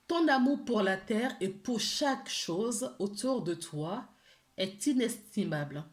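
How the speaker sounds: gentle, measured reading of an angel card message, partly slowed. Acted. Tarot reader reads the angels' message to viewers, gently and measured.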